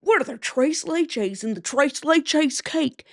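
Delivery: exaggerated white American accent, drawn out; slow, hammed-up white accent with widened vowels; whiter accent. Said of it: "say that with a whiter accent".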